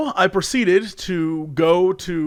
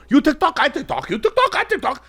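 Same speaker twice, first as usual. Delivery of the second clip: mocking grown men; 9 semitones higher than usual. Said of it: "fully grown men go".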